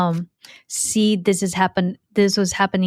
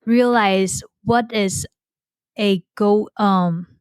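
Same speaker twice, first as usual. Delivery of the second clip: halting, slow search for words; real hesitant stammer, trailing into um; stuttering. Real, not acted. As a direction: stumble and restart mid-question. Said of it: "wait, I'm stuttering here".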